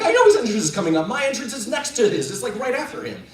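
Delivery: high, loud, rushed mock panic; panicky retort. Young actor to stage manager as cue nears, panicky. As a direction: blurt it out in acted alarm.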